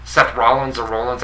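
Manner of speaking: "Rollins" first with an open AH, then with a round OH; two pronunciations compared. Shown as a demonstration. Asking which way the wrestler's name goes, comparing vowels in "Rollins". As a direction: contrast RAH-lins against ROH-lins in "Rollins or Rollins". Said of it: "I think that's my New York accent".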